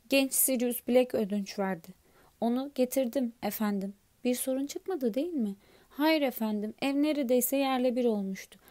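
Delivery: a big gentle giant answering politely; Hagrid's voice. Acted.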